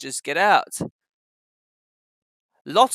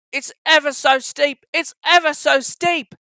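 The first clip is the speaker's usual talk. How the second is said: much higher, straining puff up the hill; puffing James; 9 semitones higher, 4 dB louder than usual. Acted. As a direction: push out each word as you climb. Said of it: "puffed James".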